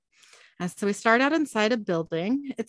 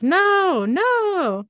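high, loud desperate cries; pained scream; 10 semitones higher, 6 dB louder than usual. Acted. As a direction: scream it in pain. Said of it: "he screams as the demon pushes".

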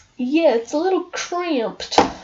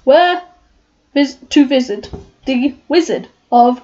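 lightly voiced lion, timid and stammering; Cowardly Lion; slower than usual. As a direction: read the lion's lines with a nervous stammer. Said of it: "I am the Cowardly Lion".

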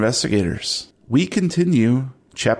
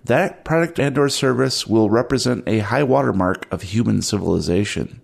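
dramatic narration. A narrator's reading.

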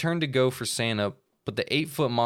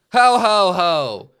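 booming, much higher Santa laugh; loud ho ho ho; 9 semitones higher, 13 dB louder, much slower than usual. Acted. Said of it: "a very loud".

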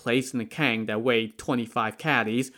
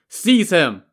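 sharp, high, loud command; barked order; 6 semitones higher, 7 dB louder than usual. Acted. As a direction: bark the order at the men. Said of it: "Daizong barked".

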